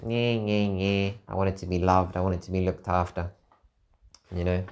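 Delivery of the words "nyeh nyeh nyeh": mock whimper. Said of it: "and I was crying, and, like".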